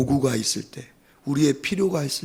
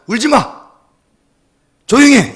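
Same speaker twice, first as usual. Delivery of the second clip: loud, high mock scolding; scolding parent; 9 semitones higher, 10 dB louder than usual. Parent to a crying growing child, scolding loudly. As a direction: order a child to hush, raised voice. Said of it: "윽박을 지르기".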